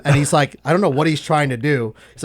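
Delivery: ordinary talk, nothing marked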